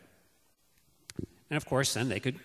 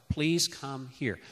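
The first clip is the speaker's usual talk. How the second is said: softer request; 6 dB quieter, much slower than usual. Shown as a demonstration. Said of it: "So it's like".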